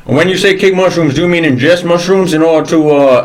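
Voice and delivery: lightly voiced old Southern gentleman, gruff; a hint of a cranky Southern colonel scolding; mild drawling Southern old-timer. Southern gentleman character continues.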